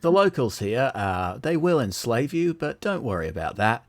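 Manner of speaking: put-on Queensland accent announcer, a touch of. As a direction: read a PA message in a Queensland accent. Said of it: "which Australian accent do you want".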